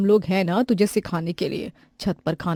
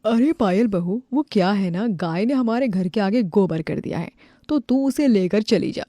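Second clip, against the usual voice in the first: a lightly voiced sneering neighbour. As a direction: order her about with mock sweetness. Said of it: "पड़ोसन की बात पायल को काफी ज्यादा बुरी लगती है". (तंज भरी पड़ोसन)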